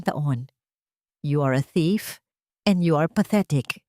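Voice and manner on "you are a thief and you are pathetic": a hint of a dangerous, composed threat; cool threat to her daughter-in-law; calm but menacing. A narrator's reading. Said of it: "sa isang mahinahon ngunit mapanganib na tono".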